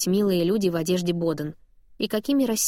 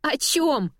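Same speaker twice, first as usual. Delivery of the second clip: laughing; 7 semitones higher than usual. A narrator's reading. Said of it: "Я корчусь от смеха".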